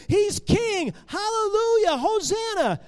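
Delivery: loud, high-pitched acclamation; rejoicing crowd. Acted. Crowd hailing their king days ago, happy rejoicing. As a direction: cheer it out high, full of praise. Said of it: "everyone was happy and rejoicing".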